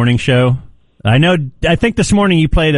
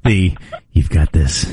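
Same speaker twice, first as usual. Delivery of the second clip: mocking imitation; 9 semitones lower, slower than usual. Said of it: "mimics the clip line".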